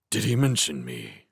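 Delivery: a touch of menace, lightly rasped. Acted. Owl questions mouse about the cat, mild rasp. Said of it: "he rasped".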